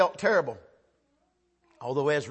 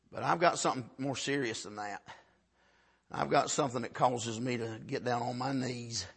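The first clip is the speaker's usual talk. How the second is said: low, soft, earnest pulpit appeal; quiet gravity, letting pauses sit; hushed, solemn preaching; 7 semitones lower, 6 dB quieter than usual. Real, not acted. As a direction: drop low and plead quietly.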